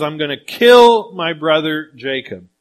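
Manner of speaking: loud punch on the threat; angry brother, voiced with moderate force; retold anger. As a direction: retell a furious vow, leaning hard on it. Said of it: "He is so angry".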